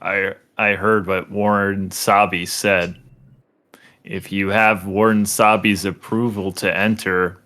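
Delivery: flat monotone reading, slow in places. Acted. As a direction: read the character's lines dead flat, monotone. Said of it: "I'm just gonna do the most monotone voice I can".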